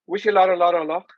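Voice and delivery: lightly imitated Liverpool catchphrase; a touch of a TV hostess's lilt; a TV presenter. Host repeating the presenter's good-luck catchphrase, lightly imitated. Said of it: "is that what a TV presenter would say?".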